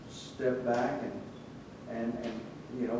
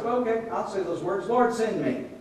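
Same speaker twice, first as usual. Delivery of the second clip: higher-pitched, offhand recital of a prayer; glib recital; 5 semitones higher than usual. Acted. Someone just saying the magical words, glibly. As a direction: rattle off the prayer as mere words. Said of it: "it was not just magical words".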